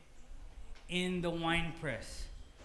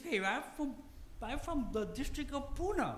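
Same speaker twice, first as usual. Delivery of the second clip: higher, louder, joking protest voice; mock Gideon excuse; 8 semitones higher, 3 dB louder than usual. Pastor voicing Gideon's excuse to the angel, higher and laughing. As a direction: play the reluctant hero protesting, laughing.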